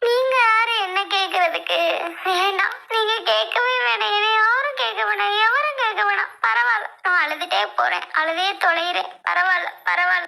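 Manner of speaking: aggrieved, crying refusal; hurt, weepy rant; tearful protest. Acted. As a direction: push away sympathy while crying. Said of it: "ஏன் அழுகுற?".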